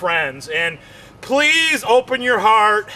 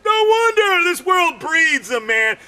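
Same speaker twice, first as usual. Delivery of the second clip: worked-up rant; 6 semitones higher than usual. Acted. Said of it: "I'm like".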